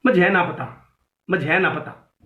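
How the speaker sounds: Saharanpur dialect with a falling tune; Saharanpur accent. Shown as a demonstration. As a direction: say it like someone from Saharanpur. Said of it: "थोड़ा सहारनपुर की तरफ जाओगे". (सहारनपुरी लहजे में)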